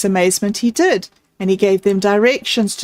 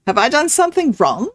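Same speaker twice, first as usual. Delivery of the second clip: put-on quick, higher anxious boy; anxious question; 5 semitones higher, faster than usual. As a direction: ask it quickly, worried you're in trouble. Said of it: "he asked anxiously".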